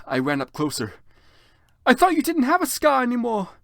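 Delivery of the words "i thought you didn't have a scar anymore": loud, high shout; high alarmed shout. Acted. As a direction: call out in shock. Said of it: "I shouted".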